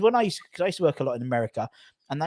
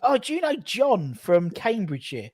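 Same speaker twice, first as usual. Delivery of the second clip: mock American asking; 9 semitones higher than usual. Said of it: "always know if you know someone".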